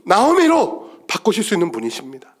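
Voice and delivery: high, driving pulpit proclamation; impassioned preaching. Real, not acted. Preacher urging the church to trust God's power, impassioned. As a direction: proclaim it with full conviction.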